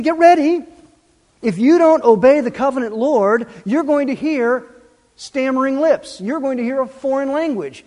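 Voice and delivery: preacher voicing the prophet, calling out loud and high; prophet's loud warning. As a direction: shout the warning like a prophet at the gates. Prophet's warning voiced in sermon.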